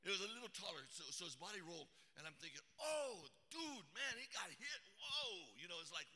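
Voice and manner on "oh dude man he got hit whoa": high, louder, stunned exclamation; shocked reaction. Retold or imitated. Preacher relives watching a man get hit, shocked. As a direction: blurt it out in reenacted shock.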